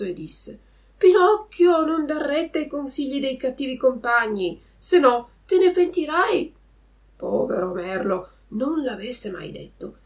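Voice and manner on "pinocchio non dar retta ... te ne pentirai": high, loud bird calling out a warning; blackbird. A narrator's reading. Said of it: "un merlo bianco ... fece il solito verso". (merlo che avverte con voce acuta)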